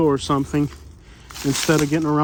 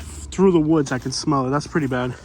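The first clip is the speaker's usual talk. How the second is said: out of breath. Real, not acted. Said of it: "And yes, I am out of breath".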